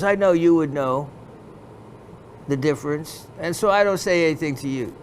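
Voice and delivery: lightly put-on Pakistani dealer accent; imitated Pakistani accent. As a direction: explain yourself in a mimicked Pakistani accent. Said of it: "I'm sorry for my imitating the accent".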